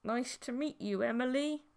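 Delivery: forced polite greeting through gritted teeth; polite on top, hostile beneath; strained politeness. Acted. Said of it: "strained between gritted teeth".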